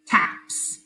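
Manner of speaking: "Taps" whispered; whispered word. Shown as a demonstration. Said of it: "Next word is taps".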